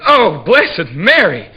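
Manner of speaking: high, loud, slow cry with a laugh in it; crying out in bed. Acted. Woman praying aloud during sex, loud high cry. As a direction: call on Mary, stretched and breathless. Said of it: "and she said".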